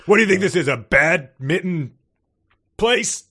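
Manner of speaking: high, loud hammed-up indignation; mock angry boss. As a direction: ham up the outraged neighbor. Mocking the boss's complaint.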